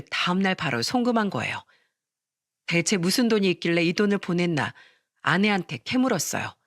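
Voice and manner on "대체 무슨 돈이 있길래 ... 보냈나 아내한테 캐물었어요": usual speaking voice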